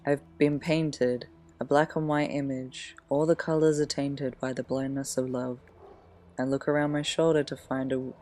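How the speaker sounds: measured poem reading with long pauses. Acted. Sharing own teenage poems with listeners, poem reading. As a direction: read it line by line, letting each phrase rest.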